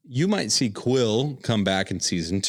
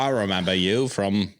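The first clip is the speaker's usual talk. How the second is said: put-on New Zealand accent; 2 semitones lower than usual. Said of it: "it's my best New Zealand voice".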